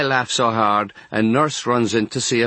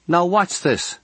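raised pitch, a touch of brisk scolding; lightly voiced chiding nun; 8 semitones higher, slower than usual. A narrator's reading. Nun to crying boy in hospital bed, chiding. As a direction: lightly chide a crying child.

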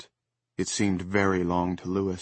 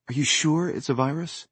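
doubting wife; 7 semitones higher than usual. Acted.

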